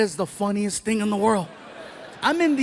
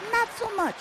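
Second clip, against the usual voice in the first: high pitched punchline; 12 semitones higher than usual. Acted. Punchline about girls.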